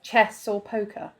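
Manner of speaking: slow, lightly cryptic quoting; mock cryptic. Quotes the stranger's odd opener back, slowly cryptic. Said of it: "what's with the cryptic".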